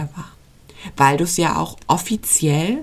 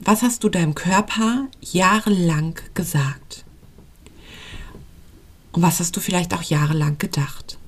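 intimate whisper. Real, not acted. Host whispering intimately to a listener who struggles with weight. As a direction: lean in and breathe the questions like a secret.

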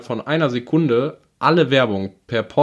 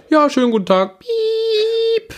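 high, put-on hotline greeting; mock cheerful hotline voice; call centre agent; 4 dB louder, much slower than usual. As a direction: chirp it like a phone agent. Retold call centre agent answering.

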